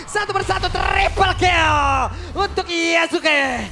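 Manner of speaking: slow drawn-out triple kill shout; fighting game announcer. Real, not acted.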